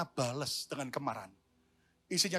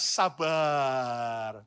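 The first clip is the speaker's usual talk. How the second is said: louder; 5 semitones lower than usual. Shown as a demonstration. Pastor urges congregation, answer louder. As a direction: say "Sabar." firmly, a bit louder. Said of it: "Ya, ayo lebih keras".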